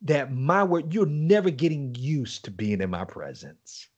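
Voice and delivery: slow, tender; tender voice of God. Retold or imitated. God speaking lovingly to him, tender. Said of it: "He said".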